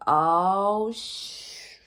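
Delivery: sudden "Oh," then a voiceless cut-off curse; startled oh, swallowed sh-; caught-out gasp. Retold or imitated. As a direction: realize you're busted mid-word. Shock at being asked to scan.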